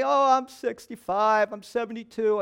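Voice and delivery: slow, drawn-out protest; mock excuse. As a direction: imitate an older churchgoer's weary excuse. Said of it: "And don't tell me".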